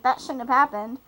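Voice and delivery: hammed-up angry yell at Marco; mock outraged yell. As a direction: call out Marco in mock alarm. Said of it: "the guy will care and be like".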